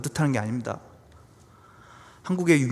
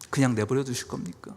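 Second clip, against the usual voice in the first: subdued plea; 2 semitones lower, 5 dB quieter than usual. Acted. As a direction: let the question fall away quietly. Same plea repeated, now subdued.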